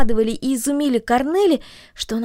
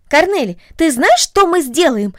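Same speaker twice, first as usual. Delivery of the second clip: put-on eager girl; 6 semitones higher, 7 dB louder than usual. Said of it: "сказала Агнес".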